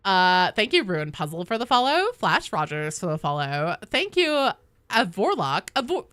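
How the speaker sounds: put-on bubbly Valley Girl, rising lines; like, totally Valley Girl thank-yous. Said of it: "I'll do the rest in the Valley Girl voice".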